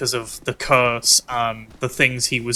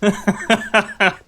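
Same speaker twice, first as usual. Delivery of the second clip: laughing mad. Real, not acted. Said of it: "I'm so mad".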